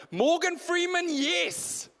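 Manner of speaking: high-pitched, thrilled fan exclamation; excited crowd cry. Acted. Crowd at a party hearing Morgan Freeman, acted high excited cheer. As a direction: call out like a delighted audience.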